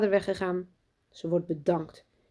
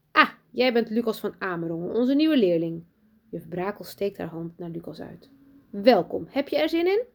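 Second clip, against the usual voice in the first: lightly voiced sugary teacher; 2 semitones higher, 3 dB louder than usual. Teacher greeting new pupil Lucas, overly sweet. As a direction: greet the boy with put-on cheer.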